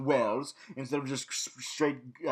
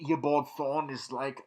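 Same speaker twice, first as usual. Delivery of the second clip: normal talking voice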